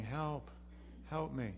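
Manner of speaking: mock half-hearted plea; half-hearted cry for help. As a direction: call for help without meaning it. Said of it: "crying out half-heartedly".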